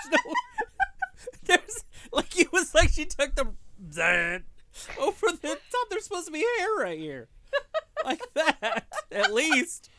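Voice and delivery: high, loud indignant complaint; worked up, exasperated griping; upset about haircut. Real, not acted. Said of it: "He's very upset about his haircut".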